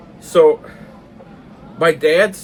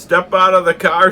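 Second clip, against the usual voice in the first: raised, louder command in a lightly voiced cop role; retold cop's order; 7 semitones higher, 8 dB louder than usual. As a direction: order it like an officer at the window. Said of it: "knocks on the window and says".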